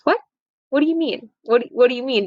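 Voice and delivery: a hint of a baffled father; lightly voiced bewilderment; father who can't believe the refusal; confused father. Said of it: "He goes".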